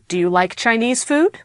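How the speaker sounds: FOOD rising at the end; question intonation. Shown as a demonstration. Teacher reading a practice sentence, questioning rise on FOOD. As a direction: lift FOOD as a genuine question. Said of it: "my voice when I read that sentence".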